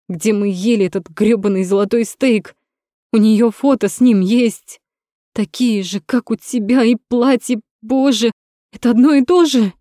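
rising, panicky hysterics; hysterical. Acted. Gaika in hysterics over the photos, to Rom. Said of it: "У Гайки натуральная истерика".

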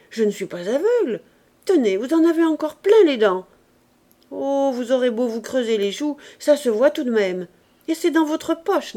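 loud, high furious scolding; angry scolding. A narrator's reading. Mistress berates the maid caught chewing, furious loud scolding.

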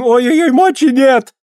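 high pained cry; agonized wail. Acted. Healer in the flames wailing to the boyar. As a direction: wail past bearing.

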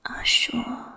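soft whispered murmur against his eyelid; a lover's hushed murmur. A narrator's reading. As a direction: whisper it tenderly, barely voiced. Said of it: "each time with a murmur of".

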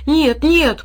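high, loud protest. A narrator's reading. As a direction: object fervently like an eager dog. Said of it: "протестующе затряс головой пёс". (бурный протест)

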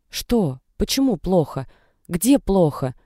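a mild scared grandmother rattling off questions; frightened questions. Acted. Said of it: "сыпать горохом испуганных вопросов". (лёгкий испуг, вопросы сыпятся)

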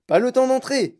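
high, loud cry of haste; Monsieur Wonka crying out. A narrator's reading. Wonka to the group passing a door, crying out. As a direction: call it out high and loud, refusing to stop. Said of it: "cria monsieur Wonka".

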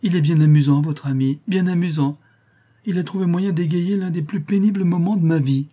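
a grieving countess can't stop laughing; laughing through tears. A narrator's reading. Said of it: "qui riait et pleurait en même temps".

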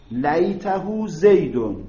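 لیته زیدون drawn out slowly, each word spaced; slow repeat. Shown as a demonstration. Teacher repeating the example for students, slow and deliberate.

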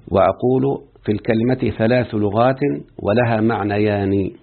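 measured classical Arabic reading with deliberate pauses; formal text reading. Acted. Teacher reading Ibn Hisham's book to students, formal reading. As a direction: read the grammar text out carefully.

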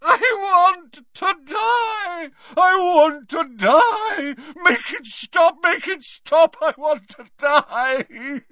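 high, loud, crying screams; anguished screaming. Acted. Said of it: "began to scream in more anguish".

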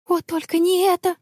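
high, whiny groan of dismay; plaintive moan. Acted. Anna caught by the man, plaintive moan. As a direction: moan it pitifully. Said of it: "жалобно простонала Анна".

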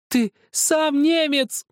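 put-on high, loud, slow child's scream; boy screaming. A narrator's reading. Zakhar beats Helmut's chest and screams at him, high and loud. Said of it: "снова закричал".

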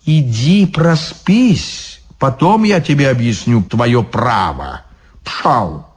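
lazy dismissive guard; smug devil guard. Acted. Devil guard sending the monk away, dismissive. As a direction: wave the drunk off.

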